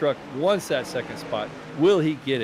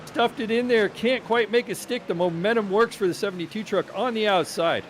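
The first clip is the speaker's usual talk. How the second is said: excited; 5 semitones higher than usual. Real, not acted. Last-lap pass attempt, live call.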